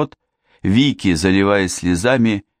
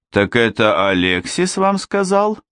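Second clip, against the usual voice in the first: roaring; 5 semitones higher than usual. Acted. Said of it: "проревела Эрминтруда".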